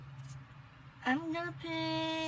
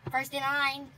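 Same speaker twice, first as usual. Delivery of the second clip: stiff, monotone robot voice. Pretend. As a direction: say it like an even-toned machine. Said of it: "You sound like a robot, Pinky".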